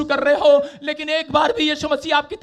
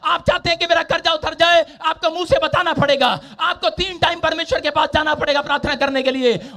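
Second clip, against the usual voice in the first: fiery preaching. Acted. Pastor telling the church to speak their needs aloud, forceful preaching. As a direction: urge the congregation with conviction.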